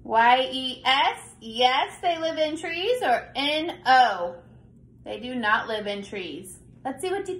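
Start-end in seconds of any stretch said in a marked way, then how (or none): 0.0-1.2 spelling out letters. Shown as a demonstration. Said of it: "Now you read it". 3.3-4.4 spelling out letters. Shown as a demonstration. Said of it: "Now you read it".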